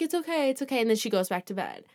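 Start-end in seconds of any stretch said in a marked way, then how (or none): 0.0-0.8 soft, slightly high soothing voice; lightly acted comforting; retold reassurance. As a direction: gently settle a frightened child, quietly. Retold reassurance of a frightened child.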